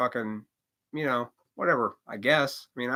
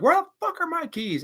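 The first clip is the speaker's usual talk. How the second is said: sudden high-pitched angry outburst; angry yell; 3 dB louder than usual. Pretend. Mock angry yell at losing his keys. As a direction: snap in a panic over lost keys. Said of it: "your first thought was like".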